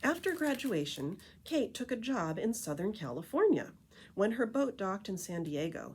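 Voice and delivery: lively picture-book read-aloud voice; story narration. A narrator's reading. Reading The Tree Lady to listeners, storytelling narration. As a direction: read it like a storyteller to a group of kids.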